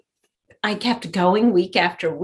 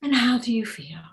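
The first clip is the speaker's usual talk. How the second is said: whispered therapist; 4 dB quieter than usual. Retold or imitated. Therapist asks gently after tapping.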